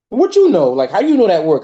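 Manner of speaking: high-pitched start, mock disbelief; imitated skeptical challenge. Nephew doubting his uncle's advice, skeptical. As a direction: question it like a doubting younger relative.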